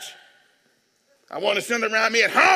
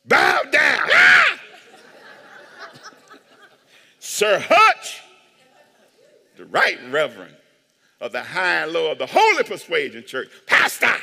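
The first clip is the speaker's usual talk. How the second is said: loud, pompous demand to be bowed to; mock self-important demand; 4 dB louder than usual. Pastor demanding his family bow down, pompous shout. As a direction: play a self-crowned king.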